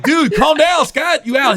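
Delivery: high, emphatic retold plea; urgent calming. Comic to his freed friend, urgently calming.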